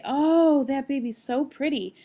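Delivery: put-on high, bright gushing over a baby; gushing stranger. Stranger admiring a baby, gushing. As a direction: coo at the pretty baby.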